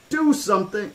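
put-on high, panicked girl's scream. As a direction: shriek for help, pitched high. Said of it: "Alexis screamed".

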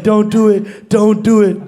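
lightly voiced angel on the shoulder; little angel voice. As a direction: urge restraint like a small conscience. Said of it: "a little angel voice in your heart".

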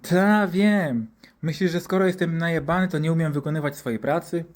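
lightly voiced indignant doctor; sarcastic retort. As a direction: brush off the warning with mock offence. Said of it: "Opisuję całą tę sytuację w sarkastyczny sposób".

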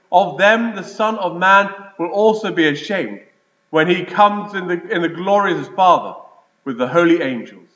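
gospel reading. Acted. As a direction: proclaim the gospel to the church. Priest reads the gospel aloud.

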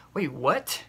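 깜짝 놀라 되묻는 "뭐라고?"; startled disbelief. Retold or imitated. Inner shock at x-ray news.

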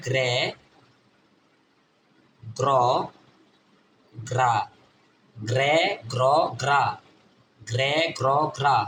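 গ্রে, গ্র, গ্রা as separate blended GR syllables; phonics drill. Shown as a demonstration. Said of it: "জিআরএ কি হবে?".

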